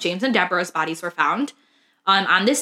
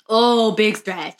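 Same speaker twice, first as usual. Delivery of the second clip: slow, drawn-out coo to the dog; pet talk; slower than usual. Real, not acted. Cooing at a stretching dog.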